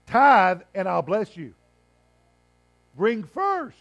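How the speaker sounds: slow, loud proclamation; voice of God. Retold or imitated. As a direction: declare it as God speaking. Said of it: "God says".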